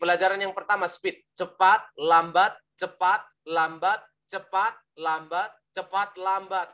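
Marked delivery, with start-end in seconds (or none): 1.4-6.7 quick "cepat", drawn "lambat"; alternating fast and slow. Shown as a demonstration. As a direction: alternate the speed word by word. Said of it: "Ditambah dengan speed".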